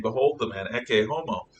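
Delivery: Behold the man, ecce homo said softly at normal pitch, awed; quietly taken aback. Acted. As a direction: say ecce homo with quiet wonder, not proclaiming. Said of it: "taken aback".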